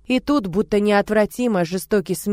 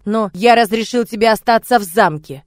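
angry reminder; 3 semitones higher, 7 dB louder than usual. Acted. Angry father to nanny.

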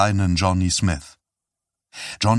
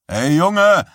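higher, loud warning call; 9 semitones higher, 6 dB louder than usual. Acted. Hockey player shouting at the boy in the way. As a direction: shout a warning across the rink. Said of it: "rief jemand".

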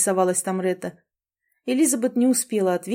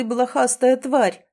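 angry shout; 4 semitones higher, 5 dB louder, slower than usual. Acted. Angry trader yells at dog.

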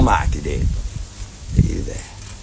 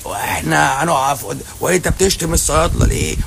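mocking complainer; 8 semitones higher than usual. Doctor mocks pharmacists complaining about him, high whiny mimic. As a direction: squeak it out like an outraged colleague, mocking. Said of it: "لكن انت بقى يقول لك ايه".

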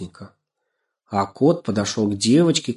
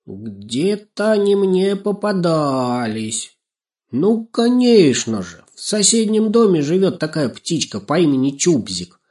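crow character, pondering then animated; 7 semitones higher, 4 dB louder than usual. A narrator's reading. Crow telling about the neighbouring bird, animated and self-assured. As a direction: stretch the vowels, then chatter knowingly.

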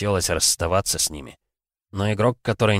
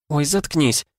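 embarrassed; 9 semitones higher, slower than usual. Acted. Embarrassed girl snaps.

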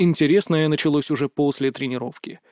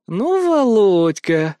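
slow drawn-out smirk; 4 semitones higher, 3 dB louder, much slower than usual. Acted. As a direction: savour his name with a smirk. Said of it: "усмехнулась Хихаль". (с усмешкой, медленно протягивая)

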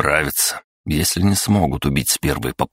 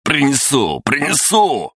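panicked shout; 11 semitones higher than usual. Acted. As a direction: blurt it out in a sudden yell. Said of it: "закричал Сидоров". (сорвавшийся испуганный крик)

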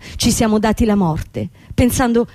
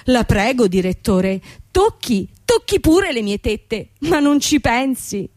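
mock pleading; 2 semitones higher than usual. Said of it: "E tu gli diresti".

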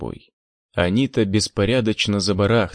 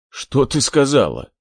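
loud, higher, barking demand; barked; 4 semitones higher, 4 dB louder than usual. Acted. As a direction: bark it out in fury. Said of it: "пролаял".

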